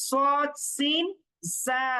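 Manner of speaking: সদ, সিন, জা with whistle-like s and z, clearly separated; whistling sibilants. Shown as a demonstration. Teacher repeating the sibilant letters, সদ, সিন, জা said with a clear whistle. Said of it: "একটু শি দেওয়ার মতো উচ্চারণ".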